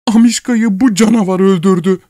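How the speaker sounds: high, loud woman's wail; wife crying out. A narrator's reading. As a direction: cry out in grief. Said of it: "diye haykırdı". (kadının yüksek sesli haykırışı)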